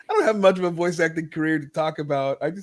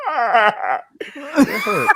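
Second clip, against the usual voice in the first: laughing hurt; 13 semitones higher, 5 dB louder, much slower than usual. Real, not acted. Mock hurt after old-man teasing.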